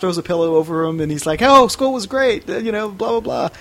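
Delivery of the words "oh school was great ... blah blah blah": put-on innocent teen. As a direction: play it falsely casual to cover up. Teen voices himself innocently to mom.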